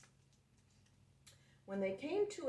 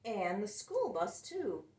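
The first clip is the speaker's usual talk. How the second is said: excited little yell; 3 semitones higher, 4 dB louder than usual. Acted. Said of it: "yelled Piggy".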